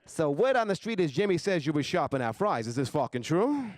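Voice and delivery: put-on mobster interrogation, slowing at the end; mock mafia boss. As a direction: confront a suspected traitor like a mob boss. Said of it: "exactly like a mafia turf war".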